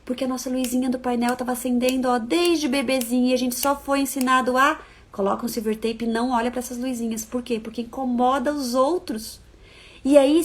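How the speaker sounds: ordinary talk, nothing marked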